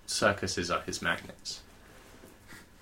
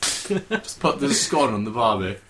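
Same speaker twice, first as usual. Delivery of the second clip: mock Australian accent; 2 semitones higher, 4 dB louder, slower than usual. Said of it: "an impression of an American doing an impression of an Australian".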